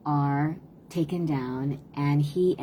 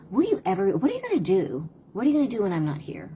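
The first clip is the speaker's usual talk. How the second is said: nagging vent; 5 semitones higher, much faster than usual. Shown as a demonstration. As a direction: rattle off a frustrated parent's scolding. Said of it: "What does that sound like?".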